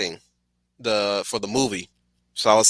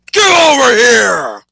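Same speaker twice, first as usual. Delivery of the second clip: huge drawn-out roar, much higher; Scorpion voice; 13 semitones higher, 10 dB louder, slower than usual. Acted. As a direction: bellow it like the ninja spectre. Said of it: "there's my, uh, Scorpion impression".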